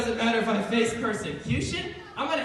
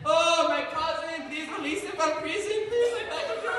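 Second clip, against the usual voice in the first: mock begging; 5 semitones higher than usual. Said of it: "The Bible doesn't say that he begged".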